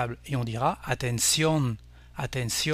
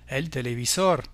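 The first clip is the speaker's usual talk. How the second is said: el televisor stressed on SOR; Spanish televisor accented on "sor"; stress on last syllable. Shown as a demonstration. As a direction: say te-le-vi-SOR, weight on the ending. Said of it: "on accentuera la dernière syllabe pour dire".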